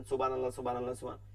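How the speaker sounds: rattled-off monotone সুবহানাল্লাহ, trailing away; hurried lifelong habit. Retold or imitated. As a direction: run সুবহানাল্লাহ together with short vowels. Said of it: "সারা জীবন এরকমই পড়ছেন". (অভ্যাসে তাড়াহুড়ো করা তাসবিহ)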